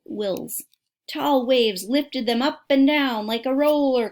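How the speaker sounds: put-on reading a book aloud to kids; steady storybook reading voice; story narration. A narrator's reading. Reads a book aloud to listeners.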